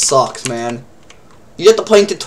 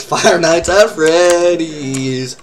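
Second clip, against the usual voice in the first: dramatic slow announcement; much slower than usual. Pretend. Echoing friend's joke, drawn out.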